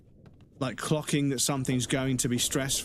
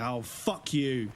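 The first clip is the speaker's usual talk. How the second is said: drawn out, slow contemptuous curse; slow spiteful fuck you; much slower than usual. Retold or imitated. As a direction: let the scorn drag out slowly. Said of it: "I didn't say that".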